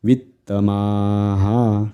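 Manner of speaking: वित्तमाहा with clipped वि, long माहा; short vi. Shown as a demonstration. Teacher shows short vowel, वित्तमाहा starting quick. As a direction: keep वि short, stretch माहा. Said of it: "रसव म्हणायची".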